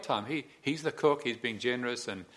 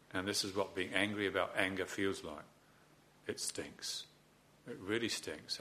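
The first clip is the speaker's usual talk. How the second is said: honest acknowledgment. Shown as a demonstration. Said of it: "modelled honest acknowledgment".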